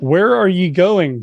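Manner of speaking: light attempt at a Scottish accent. Reading the story's stranger aloud, lightly Scottish. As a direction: read it with a hint of Scots. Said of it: "a voice with a strong Scotch accent".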